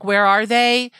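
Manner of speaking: put-on young single asking.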